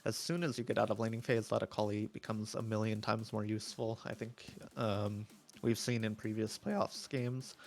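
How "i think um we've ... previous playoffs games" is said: slow, strained hoarse voice; losing voice, hoarse and tired. Real, not acted. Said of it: "sorry, I'm losing my voice".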